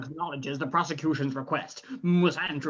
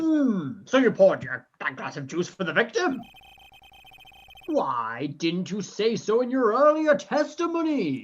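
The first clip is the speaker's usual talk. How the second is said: tugboat captain; 3 semitones higher than usual. Acted. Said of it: "Why are you talking like an old sea captain?".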